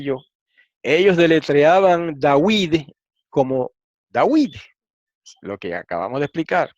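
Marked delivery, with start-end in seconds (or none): 2.2-2.8 "David" pronounced dah-weed, w instead of v; w pronunciation. Shown as a demonstration. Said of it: "La combinación vocálica wi, un diptongo". 4.1-4.5 a w glide into a long ee in "David"; "David" with oui in the second syllable; w pronunciation. Shown as a demonstration. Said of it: "wi con W como en el francés".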